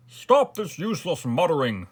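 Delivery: high, loud command; impatient royal order. A narrator's reading. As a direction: cut off the mutterers with authority. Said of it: "ordered the king".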